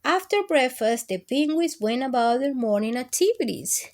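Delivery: loud, lively storybook reading; loud read-aloud narration; story reading. Acted. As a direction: read it out big for the kids. Reads story aloud to kids.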